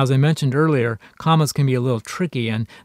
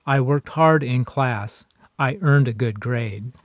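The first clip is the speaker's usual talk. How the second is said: slow demo; slower than usual. Shown as a demonstration. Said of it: "a comma can link two short sentences together".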